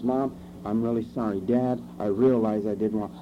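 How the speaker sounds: put-on calm sincere child. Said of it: "comes back stable, unemotional".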